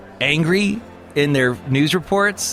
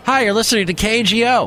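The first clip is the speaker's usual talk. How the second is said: radio announcer; 7 semitones higher than usual. Pretend. Mock radio station ident.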